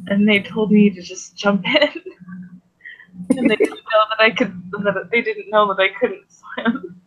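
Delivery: amused storytelling with small chuckles; chuckling a little. Acted. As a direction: let a light laugh slip into the telling. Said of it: "chuckling a little bit".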